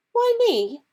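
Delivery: put-on indignant young girl; Hermione. Hermione protesting to Harry, high and indignant.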